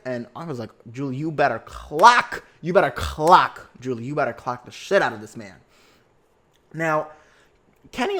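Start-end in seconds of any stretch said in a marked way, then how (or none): 0.9-5.6 louder and slowed, egging her on; hyped cheering. Retold or imitated. Cheering on Julie's drag.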